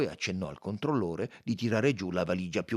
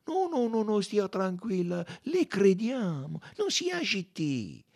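reassuring; 10 semitones higher than usual. A narrator's reading. Detective comforts the frightened maid, soothing her. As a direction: hush and comfort, slowing towards the end. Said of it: "la rincuorò".

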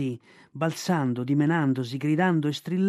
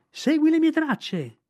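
high, slow, drawn-out shriek; boy shrieking while thrown through the air; 12 semitones higher, 4 dB louder, slower than usual. Acted. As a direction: stretch out every word of the shriek. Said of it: "Strillò le ultime parole".

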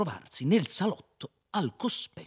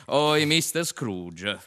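slow mock English accent; 3 semitones higher, 4 dB louder, much slower than usual. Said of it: "proruppe il terzo".

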